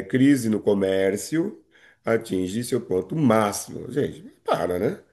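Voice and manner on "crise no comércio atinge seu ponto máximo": slow example read. Shown as a demonstration. Teacher to class reading the example, slowly. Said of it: "As palavras com letras maiúsculas".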